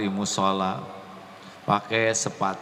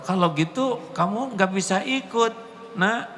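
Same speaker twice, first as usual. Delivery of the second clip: high, bright teacher voice; teacher's reply; 10 semitones higher than usual. Retold or imitated. Teacher telling the boy he cannot join, high voice. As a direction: voice the teacher turning the child down. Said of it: "Kata ba".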